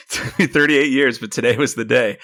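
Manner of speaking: laughing through the words; chuckling while bragging. Real, not acted. Joking about growing chest hair.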